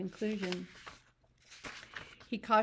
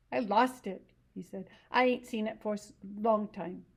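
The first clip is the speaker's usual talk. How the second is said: higher simple-minded ranch hand voice, eager; Lenny; 3 semitones higher, 5 dB louder than usual. Acted. To Curly's wife about rabbits, eager simple voice.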